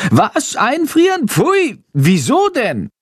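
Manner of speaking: high, shocked squeal of disgust; the bat recoils in horror, squealing; horrified shriek. A narrator's reading. Bat shrieks in horror at freezing its friend, high squealing. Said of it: "kreischt Chandor entsetzt".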